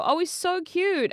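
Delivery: mock fawning coo; imitating cooing admirers. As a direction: gush over an adorable baby. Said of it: "they go".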